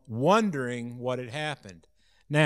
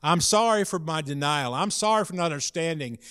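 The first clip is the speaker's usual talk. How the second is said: an acted, pleading apology; heartfelt crying out; 3 semitones higher than usual. Disciple apologising for his denial, crying out from the heart. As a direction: repeat the apology earnestly, pitch lifting at first. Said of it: "Peter's heart was crying out".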